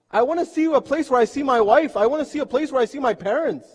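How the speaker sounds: high, driving argument; impassioned insistence. Retold or imitated. Retold man argues for a home.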